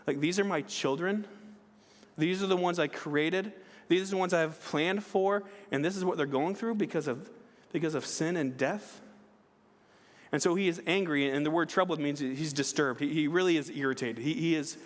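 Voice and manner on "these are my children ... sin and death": a touch of indignation, slightly raised pitch; understated protest, like an aggrieved parent; mildly ticked off. Acted. Preacher voices Jesus grieving over his children, mildly ticked off. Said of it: "kind of ticked off a little bit".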